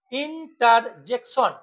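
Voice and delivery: ইন্টারজেকশন slowly, beat by beat; broken into syllables. Shown as a demonstration. Teacher demonstrating polysyllables, ইন্টারজেকশন split in four. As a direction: sound out ইন, টার, জেক, শন. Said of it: "তিনটির অধিক syllable থাকে".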